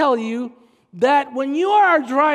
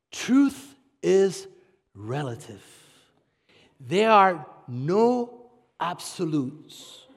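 mock relativist; 8 semitones lower, 3 dB quieter, slower than usual. Mocking relativist slogan.

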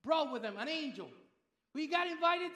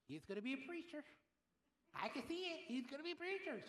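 aunt's prophecy; 10 dB quieter, faster than usual. Retold or imitated. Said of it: "She didn't speak like that, but that's how I heard her".

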